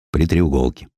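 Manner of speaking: ordinary delivery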